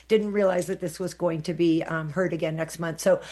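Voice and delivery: usual speaking voice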